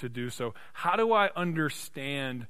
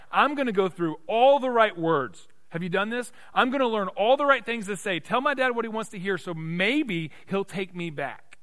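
raised, urgent pulpit delivery; impassioned preaching; 7 semitones higher, 6 dB louder than usual. Acted. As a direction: preach the returning son's rehearsed plea. Preaches in the son's words.

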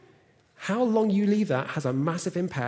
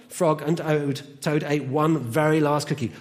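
animated storytelling with deliberate pauses; children's story reading. Acted. Reads a children's story aloud.

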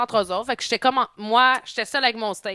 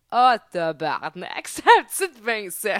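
put-on old prospector; slower than usual. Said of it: "puis on va se dire".

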